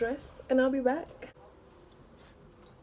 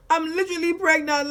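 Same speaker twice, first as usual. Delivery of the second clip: mock wailing; 7 semitones higher, 4 dB louder than usual. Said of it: "I was bawling my eyes".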